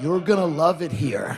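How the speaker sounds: mock-menacing welcome after a pause; threatening. Comic repeats the newcomers' welcome to a visitor, threateningly. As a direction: imitate a welcome that is really a threat. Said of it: "they say it in the most threatening way".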